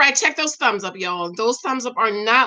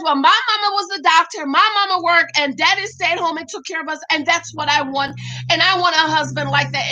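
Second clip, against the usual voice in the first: lightly voiced Amelia; 4 semitones higher than usual. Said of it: "Well, Amelia says".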